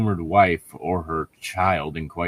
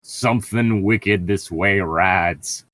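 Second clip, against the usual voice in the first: ominous parody; slower than usual. Acted. Twisting the quote.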